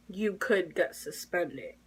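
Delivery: low, soft, slow warning; calm. Retold or imitated. School official warning a student of suspension, calm. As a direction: state the threat evenly, without raising the voice. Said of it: "he was calm, and then he was like".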